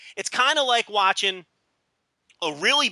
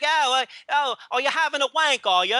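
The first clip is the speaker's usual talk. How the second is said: mock Victorian hooker; 4 semitones higher than usual. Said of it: "don't say it with that accent like, like you're a hooker in eighteen seventy".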